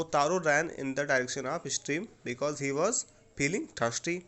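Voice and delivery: slow, deliberate answer dictated word by word; slow dictation. Shown as a demonstration. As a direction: spell it out slowly so pupils can write. (धीमे-धीमे लिखवाते हुए)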